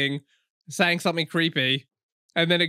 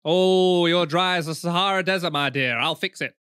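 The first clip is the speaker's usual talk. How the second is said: lightly put-on northern English voice; northern English accent. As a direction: do a mock-soothing northern English Jim. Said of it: "he's kind of got a northern accent".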